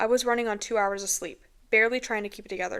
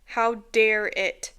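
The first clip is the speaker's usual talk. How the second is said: slow, louder outraged how dare it; 6 dB louder, much slower than usual. Retold or imitated. Mother enraged that it used her son's voice, slow loud outrage. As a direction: spit it out in disbelief. Rage at the thing.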